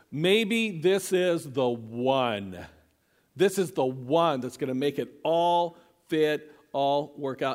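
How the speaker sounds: slow, drawn-out wishful musing; lovestruck hope. Acted. Voices Jacob's hope on seeing Rachel.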